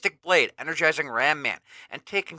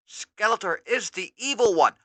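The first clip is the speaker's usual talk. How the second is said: higher dawning realization; Ram Man realizing; 8 semitones higher than usual. Acted. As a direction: realize the trick.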